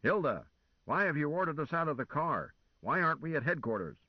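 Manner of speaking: rumbling demand. A narrator's reading. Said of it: "Lazarus Long's voice rumbling".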